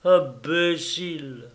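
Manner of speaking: scornful insult. Acted. Insult ending tirade.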